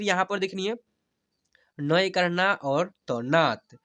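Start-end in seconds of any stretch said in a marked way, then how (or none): 1.8-3.8 very slow teacher's demo, long stretched vowels; slow spelling-out. Shown as a demonstration. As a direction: spell each letter slowly, then draw out the whole word. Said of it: "ऐसे पढ़ेंगे". (धीरे-धीरे हिज्जे करके, स्वर खींचकर)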